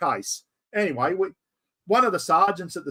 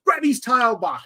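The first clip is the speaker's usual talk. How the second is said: urgent call; 6 semitones higher than usual. Retold or imitated. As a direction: call for help mid-struggle, a little raised. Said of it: "And then he goes".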